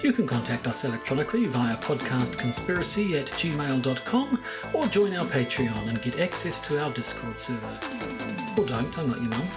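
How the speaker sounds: scripted outro announcement; measured sign-off with a dry closing aside; podcast credits read. Acted. Recorded closing credits over music.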